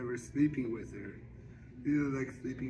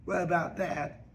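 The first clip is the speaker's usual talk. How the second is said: louder, persuading with a hint of Suge; lightly voiced Suge; 4 semitones higher, 4 dB louder than usual. Suge argues with Squeak about church singers, insistent. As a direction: press the point like a challenge. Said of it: "Suge say".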